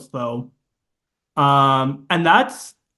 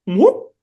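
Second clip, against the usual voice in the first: a high, louder whoop; imitated ring whoop; 6 semitones higher, 4 dB louder than usual. Shown as a demonstration. To a friend, imitating the ring sound with a whoop. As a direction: chirp a little whoop like the ring vanishing. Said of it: "It's like that".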